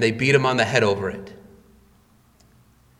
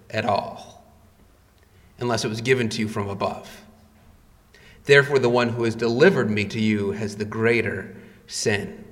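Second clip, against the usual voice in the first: calm reply; 3 semitones lower than usual. Retold or imitated. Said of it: "the Lord Jesus responds back".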